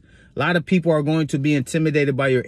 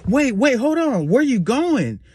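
higher-pitched mock female coworker; imitating eager woman; 8 semitones higher than usual. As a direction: call after him in a high mock-female voice. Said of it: "She's like".

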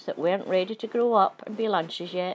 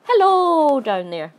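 loud, high call downward; cheerful high shout down to the ground; 7 semitones higher, 8 dB louder, slower than usual. Acted. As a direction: call out to the bugs below. Calling down to the bugs.

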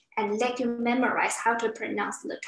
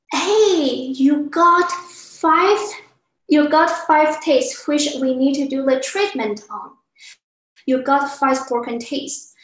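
acted dentist, raised voice easing off; emphatic dentist; 3 semitones higher, 6 dB louder than usual. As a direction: loudly announce the bad news to a patient. Acted dentist announcing bad news.

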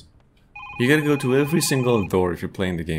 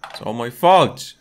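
"It's all my fault" said louder, with the fall on "fault"; louder dramatic read; 6 dB louder than usual. Acted. Streamer re-reading the game's line, louder dramatic read. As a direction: lean into "fault" like a guilty character.

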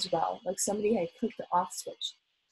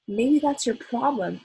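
slow, louder, higher jab; grinning retort; 4 semitones higher, 6 dB louder, slower than usual. A narrator's reading. Mother scoring on the teacher, grinning retort. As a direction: toss it back with a grin. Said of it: "Mom replied with a grin".

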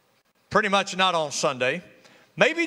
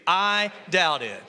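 slow, each word laid out for the crowd; slow unison; slower than usual. Shown as a demonstration. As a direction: lead the room, slowly and clearly. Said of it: "Say it with me".

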